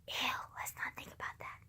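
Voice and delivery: cringe and whisper it away; a shuddering, breathy ew; disgusted whisper. Real, not acted. Cringing to camera about nineties hair, in a disgusted whisper.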